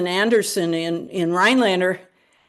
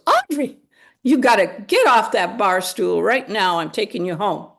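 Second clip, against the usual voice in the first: calling out. Retold or imitated. Mother ordering her daughter away from Nelson, sharp. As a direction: snap her off that barstool.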